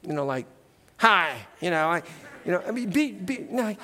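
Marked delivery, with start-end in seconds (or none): 1.0-1.4 fake hi. Shown as a demonstration. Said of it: "not fake".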